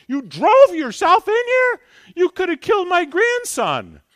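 high, loud, shrill-voiced outrage; scolding lady. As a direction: shriek at him like an upset grandmother. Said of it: "That's what some lady said to me".

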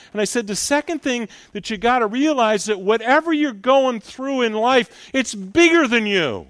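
fervent, rising preacher's appeal; preaching. Acted. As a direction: preach it out to the congregation. Preaching to the congregation.

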